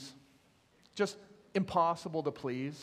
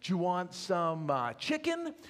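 friendly butcher; 3 semitones higher than usual. Acted. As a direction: coax the dog like a pet. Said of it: "the butcher ... looks down and says".

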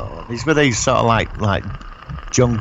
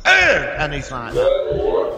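Rambo grunt; 2 semitones higher, much slower than usual. Retold or imitated. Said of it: "them noises".

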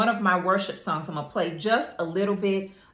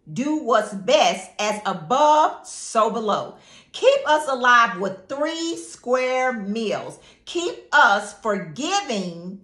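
simple prayer; 2 semitones higher than usual. Shown as a demonstration. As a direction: pray it simply, one phrase at a time. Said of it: "you can pray very simply like this".

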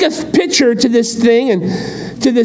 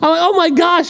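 amazed; 10 semitones higher than usual. Retold or imitated. Amazed at the beast.

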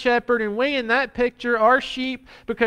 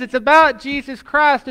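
emphatic preaching; 3 semitones higher, 6 dB louder than usual. Real, not acted. Preacher driving the point home.

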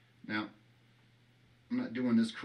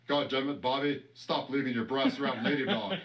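Hank Hill impression. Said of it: "greatest Hank Hill impression".

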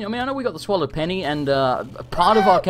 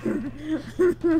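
laughing protest; 7 semitones higher than usual. Real, not acted. Streamer teased about his failed Aussie accent, laughing protest. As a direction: laugh while defending yourself.

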